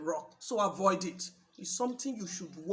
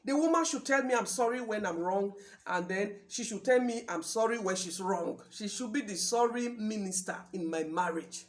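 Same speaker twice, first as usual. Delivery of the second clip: lightly voiced self-important man, loud at first; a touch of a husband laying down the law; domineering husband; 5 dB louder than usual. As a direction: open loud and assertive, then ease off. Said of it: "the type that will always say".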